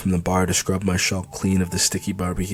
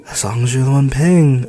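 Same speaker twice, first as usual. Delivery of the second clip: teasing call; 5 semitones higher, 6 dB louder than usual. Acted. Man teasing her about paying.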